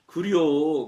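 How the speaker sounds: lightly voiced Chungcheong dialect reply; a voice hearing God reply in a light Chungcheong dialect. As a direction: answer casually in a hint of Chungcheong dialect. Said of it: "충청도 말로".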